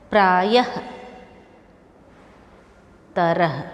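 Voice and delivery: each word called out loudly, one by one with long pauses, a half h breath at the end; teacher drilling the class word by word, loud; loud visarga drill. Shown as a demonstration. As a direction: call them out slowly for students to repeat. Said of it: "जोर जोर से इसको पढ़िए".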